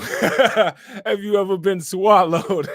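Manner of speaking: slow mock preacher breaking into laughter; T D Jakes. Streamer mimicking a reverend's question, mock-solemn through laughs. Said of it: "Why was he saying it like that?".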